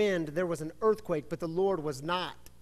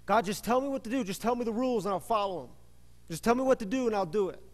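demanding plea; 4 semitones higher, 5 dB louder, much faster than usual. Retold or imitated. Voicing lazy demanding prayer.

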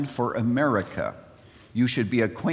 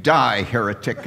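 louder comic mock yell; hammed-up fake outrage, half laughing; mock scream; 2 semitones lower, 5 dB louder than usual. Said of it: "And I screamed".

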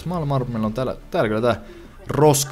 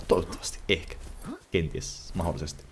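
fading mutter; 4 semitones lower, 10 dB quieter than usual. Real, not acted. Trailing off quietly.

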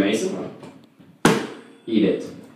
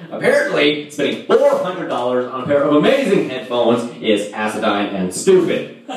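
mocking girlfriend; 8 semitones higher, 3 dB louder than usual.

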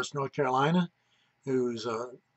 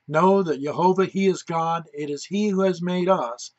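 scripture reading; 2 semitones higher than usual. Acted. Minister reading Psalm one hundred to his viewers, proclaiming. Reads Psalm 100 aloud.

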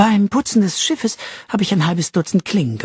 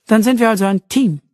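cheerful; 7 semitones higher, 4 dB louder than usual. Acted. Arabella proposes teaming up.

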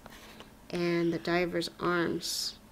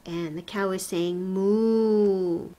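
slow cow hint; 4 dB louder, slower than usual. Shown as a demonstration. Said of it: "a shape of a cow".

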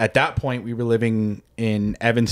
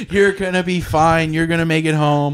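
high-pitched mock pep talk; cheering on; 4 semitones higher than usual. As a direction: imitate eager reassurance, pitched up. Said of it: "cheering me on".

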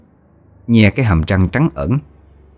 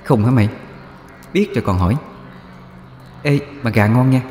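a hint of a breezy ghost girl, higher; lightly teasing, eerie higher voice; echoing ghost voice; 5 semitones higher, 3 dB quieter, faster than usual. A narrator's reading. Thủy casually praises the chicken to Út, lightly teasing ghost voice. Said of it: "cái giọng của nó nghe cứ vang vang".

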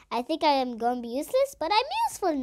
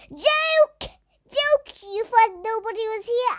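teasing jump scare; 9 semitones higher, 5 dB louder, slower than usual. Pretend. Jump-scaring teammates.

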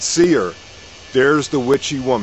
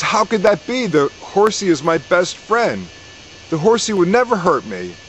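higher, disbelieving protest; pitched up in mild hammed-up shock; shocked farmer; 5 semitones higher than usual.

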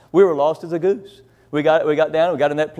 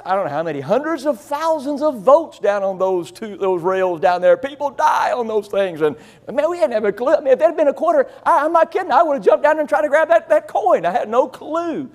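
ordinary delivery

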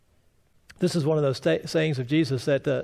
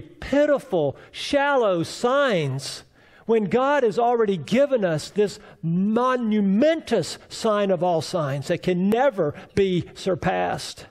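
preaching at full force; 5 semitones higher than usual. Acted. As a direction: build it up and proclaim.

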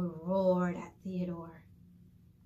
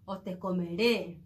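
shouting; 3 semitones lower, 3 dB louder than usual. Acted. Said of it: "le gritó".

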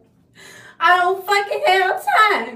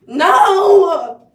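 sharp no; 11 dB louder than usual. Real, not acted. Hair won't straighten, snaps.

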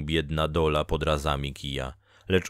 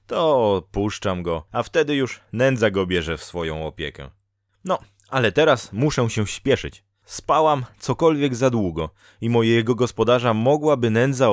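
raised, louder voice of a talkative fate-woman; Dola, chatty fate-woman; 5 semitones higher, 5 dB louder than usual. Acted. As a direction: introduce yourself briskly in a higher voice. (podniesiony, żywy głos gadatliwej Doli)

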